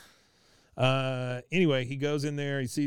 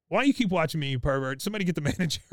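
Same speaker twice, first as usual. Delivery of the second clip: indignant outburst; 5 semitones higher, 4 dB louder, much faster than usual. Retold or imitated. Khan snaps at Hank.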